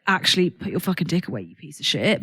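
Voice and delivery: low, blunt put-down; harsh rejection. Shown as a demonstration. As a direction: spit it out rudely. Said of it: "You don't have to be like".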